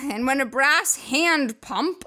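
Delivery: lightly hammed-up sexy catalogue voice; put-on reading voice. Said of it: "I can't say that without that voice on".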